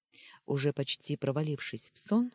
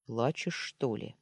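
insinuating; 2 semitones lower than usual. Acted. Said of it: "вкрадчиво уточнил".

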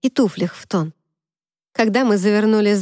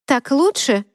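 huffy snort; 5 semitones higher, slower than usual. Acted. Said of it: "фыркнула я".

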